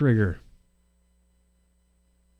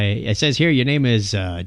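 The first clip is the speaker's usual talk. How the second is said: ordinary talk, nothing marked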